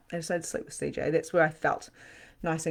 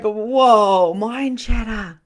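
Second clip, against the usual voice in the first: loud, drawn-out, higher exclamation; astonished whoa; 5 semitones higher, 9 dB louder, much slower than usual. Retold or imitated. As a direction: stretch it out slowly in retold amazement. Retold astonishment at own thoughts.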